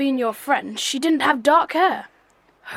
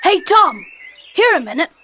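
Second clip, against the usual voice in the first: calling out; 3 semitones higher, 4 dB louder than usual. Acted. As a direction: call across the yard, a bit louder. Calling stable boy across yard.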